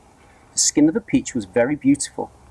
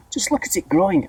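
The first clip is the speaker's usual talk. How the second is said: high excited aunt; excited cry; 8 semitones higher than usual. A narrator's reading. Aunt cries out at the peach, excited. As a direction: cry out at the growing fruit. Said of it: "Aunt Spiker cried".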